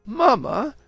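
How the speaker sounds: high, prim little-lady voice; little girl Ulvina. Acted. Ulvina to Clarice about the bridge set, gushing. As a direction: gush like a grown-up hostess.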